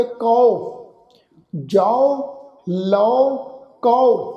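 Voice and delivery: ਕਉ pronounced "kau"; kanaura vowel. Shown as a demonstration. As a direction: teach ਕਉ, ਜਾਓ, ਲਓ one by one with open "au" endings. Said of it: "ਕਨੌੜੇ ਦੀ ਮਾਤਰਾ ਵਾਂਗੂ ਉਚਾਰਨ ਹੋਵੇਗਾ".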